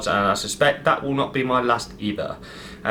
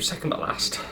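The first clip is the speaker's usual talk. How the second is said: softer, half-voiced echo of SECOND BUT LAST; hushed repeat; 6 dB quieter than usual. Real, not acted. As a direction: say "second but last" under your breath. Repeats it under his breath.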